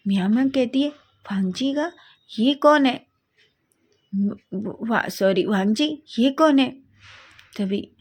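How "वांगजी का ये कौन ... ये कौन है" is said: asking sweetly who he is, pitched up. Acted. Miao Miao curiously asks who.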